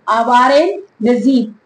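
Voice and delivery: Awaran Gazib, broken into two careful parts; Arabic pronunciation. Shown as a demonstration. Teacher repeating the Arabic name for students, Awaran Gazib carefully sounded out. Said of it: "In Arabic language".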